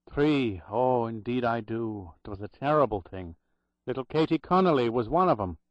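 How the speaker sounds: lightly voiced Irish brogue remembering; a hint of old Irish brogue, grave. Old Irish clerk recalling the drowned nurses, light Irish brogue. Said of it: "in a loud Irish brogue".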